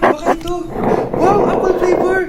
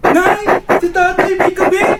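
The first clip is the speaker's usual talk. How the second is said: shouting; slower than usual. Acted. Child shouting news.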